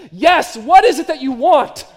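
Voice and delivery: mock exasperated father at the end of his rope. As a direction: let the frustration burst out. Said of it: "cry out with great annoyance and exasperation and frustration".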